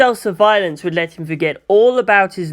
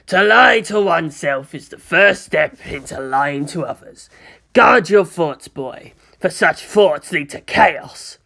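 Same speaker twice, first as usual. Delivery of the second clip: stern warning with loud punched words; harsh, unforgiving; 5 dB louder, slower than usual. Acted. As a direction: admonish like a merciless commissar. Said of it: "An imagined voice that was harsher, even less forgiving".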